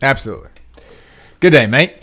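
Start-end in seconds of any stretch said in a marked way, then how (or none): 1.4-1.9 put-on Australian accent. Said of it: "for that accent".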